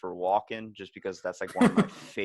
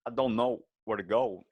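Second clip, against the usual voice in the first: Walken mortician. Retold or imitated. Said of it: "your Walken voice".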